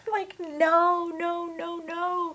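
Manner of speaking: high, laughing no no no; playful refusal. Retold or imitated. Woman refusing the idea of marriage, high and amused. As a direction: bat the idea away with a laugh.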